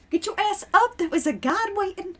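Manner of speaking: high, brash critter nagging; pushy fox voice. Pretend. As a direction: shove them along like a cheeky fox.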